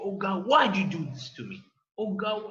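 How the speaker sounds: aggrieved, upset, ranting outburst. Retelling a fired news anchor ranting on his radio show: retelling an upset rant. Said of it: "like he started like getting upset with Allah".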